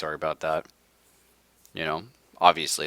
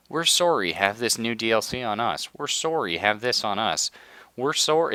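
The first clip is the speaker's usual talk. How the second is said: mock apology; 3 semitones higher than usual. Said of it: "emails going".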